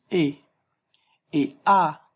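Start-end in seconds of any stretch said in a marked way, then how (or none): 0.1-0.3 E as a single open "eh" vowel; pronunciation demo. Shown as a demonstration. Teacher showing how E, I is pronounced, pronunciation demo of E as "eh". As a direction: say E as one clean "eh" sound. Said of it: "se prononce".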